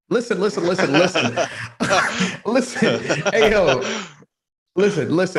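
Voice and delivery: hammy cowboy hollering to get attention; Cowboy Bryson voice. Pretend. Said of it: "I'm gonna talk like Cowboy Bryson".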